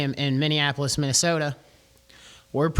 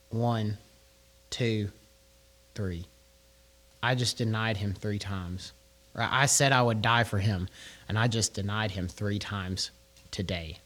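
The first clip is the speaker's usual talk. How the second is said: much softer, lower, fading to near silence; stunned remorse; 5 semitones lower, 5 dB quieter than usual. Acted. Peter counting his denials to himself in hushed dismay. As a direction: Peter realizing what he's done, barely aloud.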